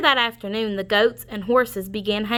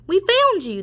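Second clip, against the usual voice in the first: shouted; 9 semitones higher, 3 dB louder than usual. Acted. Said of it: "they shouted".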